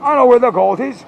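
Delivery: high, loud mock rap shout; hammed-up bad rap, pushed high; bad white rapper. Imitating Hitler bragging about gold, bad white rapper. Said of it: "it's like a bad white rapper".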